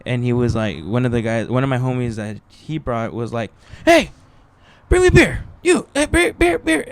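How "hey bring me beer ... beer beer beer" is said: high, loud mock holler; loud heckler. Homie demanding beer during a comedy show, high mock shouting. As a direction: holler for beer like a rowdy audience member. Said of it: "they started just fucking talking loud".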